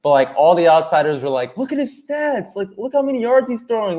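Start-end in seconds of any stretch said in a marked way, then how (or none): 1.6-4.0 high-pitched imitation of fans; mock gushing. Outsiders praising his stats and yards, mock gushing. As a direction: gush in a raised, put-on voice.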